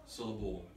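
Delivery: syllable with the accent moved to the end; syllable said as syl-la-BLE; stress on last syllable. Shown as a demonstration. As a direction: lean on the final part of syllable. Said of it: "I moved the accent from each".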